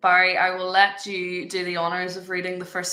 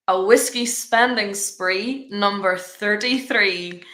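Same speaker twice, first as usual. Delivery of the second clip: bingo caller; slower than usual. Acted. Slow bingo number call.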